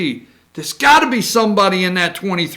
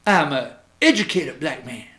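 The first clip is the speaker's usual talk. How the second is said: mock Sharpton voice; 9 semitones lower, 7 dB quieter than usual. Mocking Al Sharpton on camera.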